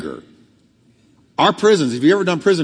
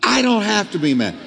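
pitched up, emphatic declaration; preached with conviction; 6 semitones higher than usual. Shown as a demonstration. Pastor repeating the line, preached higher with force. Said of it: "Let's try it one more time".

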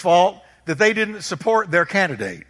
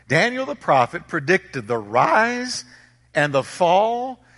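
emphatic preaching; 3 semitones higher, slower than usual. Real, not acted. Preacher restates the point deliberately.

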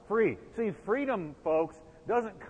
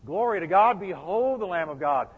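louder, rejoicing cry of praise; excited proclamation; 5 dB louder than usual. Retold or imitated. John crying out about the Lamb of God, excited. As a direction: proclaim it like a joyful discovery. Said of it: "I think he said it like".

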